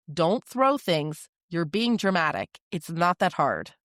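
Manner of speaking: a touch of stern, dismissive parent; judgmental. Shown as a demonstration. Parent showing a judgmental reply to upset child, mildly stern. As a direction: scold briefly, brushing the feeling off. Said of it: "Here's what judgment sounds like".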